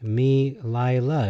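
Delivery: "Me Lila" as slow mee-lie-LA; evenly stressed syllables. Shown as a demonstration. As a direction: draw out each syllable of "Me Lila". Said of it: "put a different emphasis on words".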